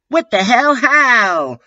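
high, hammed-up outraged yell; screamed. A narrator's reading. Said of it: "I screamed".

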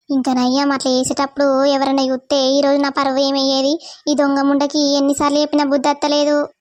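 a mother fed up with her daughter, grumbling low; angry mother. Acted. Mother scolding. (తల్లి గొంతులో తిట్టుకుంటూ, తక్కువ స్వరంలో)

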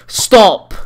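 high, loud screamed stop; raging gamer scream. Real, not acted. Yelling at opponent.

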